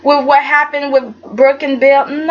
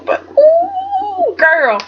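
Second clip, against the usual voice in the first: squealing ooh; much slower than usual. Real, not acted. Vlogger squeals at Katie's burn, high and thrilled.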